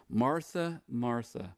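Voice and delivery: mildly tender address, falling on the second name; gentle endearment before a hard truth. Acted. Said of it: "he's going to be gentle with it".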